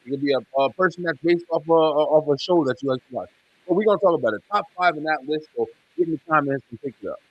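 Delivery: sounds like talking underwater; muffled, bad mic, like underwater. Real, not acted. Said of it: "You sound like you're underwater".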